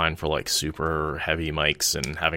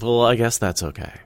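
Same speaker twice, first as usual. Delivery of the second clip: lightly mimicked grudging old lady; a mild sour acceptance that is never really satisfied; passive aggressive; 4 semitones higher than usual. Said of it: "always this passive aggressive".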